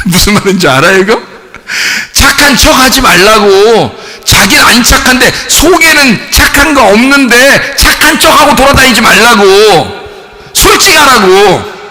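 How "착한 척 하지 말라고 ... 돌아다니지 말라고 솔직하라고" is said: raised-pitch, insistent scolding; forceful exhortation. Real, not acted. Preacher urges churchgoers to stop faking goodness, forceful exhortation. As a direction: drive each plea home to the crowd.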